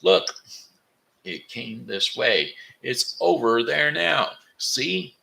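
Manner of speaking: high, loud screaming boar. Acted. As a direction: scream it out, pointing wildly. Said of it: "a wild boar scream".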